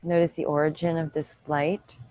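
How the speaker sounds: calm, even meditation voice with long pauses; unhurried yoga-teacher meditation cues; guided meditation. Real, not acted. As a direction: guide them gently inward, leaving room to breathe.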